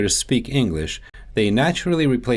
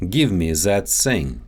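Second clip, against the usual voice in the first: Russian accent, "that thing" said as "zat sing"; Russian accent, Z and S in place of both TH sounds; 3 semitones lower than usual. Shown as a demonstration. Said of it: "tongue placement often shifts".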